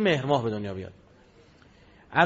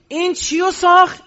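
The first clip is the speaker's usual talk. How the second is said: high rhetorical question; 11 semitones higher, 7 dB louder than usual. Real, not acted.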